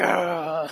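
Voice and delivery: mock groan of dismay; exasperated groan.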